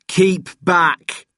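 short, high, loud warning; shouted. A narrator's reading. Jed dragging Richard away from the attackers, shouting. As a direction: shout them back firmly. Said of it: "Jed shouted".

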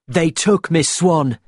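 understated, deliberate anger; angry. A narrator's reading. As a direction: say it angrily, pressing each word. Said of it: "said Will angrily".

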